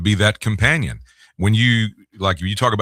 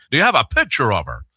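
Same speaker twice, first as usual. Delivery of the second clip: lightly voiced boss, slightly raised pitch; a hint of the old GM quizzing you; imitated station manager; 3 semitones higher than usual. Manager quizzing young host about a girlfriend, lightly imitated boss voice. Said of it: "that's how he talked".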